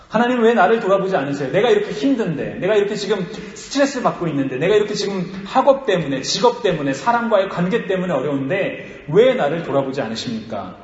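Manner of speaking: acted, insistent lament to God; pleading complaint. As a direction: pile up grievances to God, pressing for an answer.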